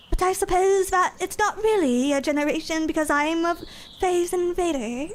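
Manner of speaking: hammed-up British accent introduction; mock British debutante. Playing a posh British debut character.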